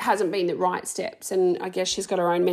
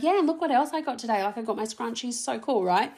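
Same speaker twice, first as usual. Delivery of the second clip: excited. Pretend. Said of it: "then I'll be like".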